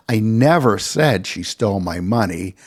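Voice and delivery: "never" lifted above the other words; stress on NEVER. Shown as a demonstration. Lecturer showing how stress changes meaning, stress on "never". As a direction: punch the word "never". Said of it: "Depending on stress emphasis".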